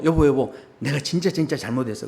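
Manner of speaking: low, soft hurried apology; lightly acted pleading husband; apologetic husband. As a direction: keep it low and contrite. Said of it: "쫓아 나가가지고".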